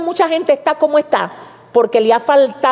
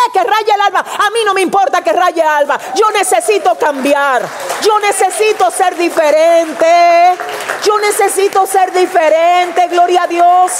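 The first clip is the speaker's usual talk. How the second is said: a hint of desperate Jacob refusing to let go; defiant Jacob; 4 semitones higher than usual. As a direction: Jacob pleading to be changed.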